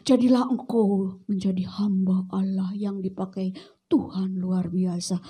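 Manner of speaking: gentle parental blessing; tender blessing. Acted.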